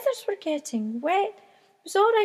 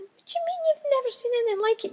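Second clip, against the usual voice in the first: incredulous gull; 10 semitones higher, much faster than usual. A narrator's reading. Susan incredulous at Roger.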